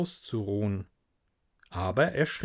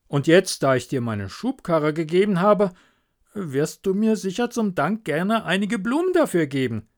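the smug miller wheedling a favour; greedy miller; 4 semitones higher than usual. Acted. The miller to Hans about the plank, smug and wheedling.

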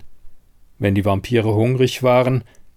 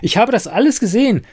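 much higher, louder and fast; heated insistence; 11 semitones higher, 4 dB louder, faster than usual. Acted. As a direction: burst out in frustration. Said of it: "erregte sich Siren".

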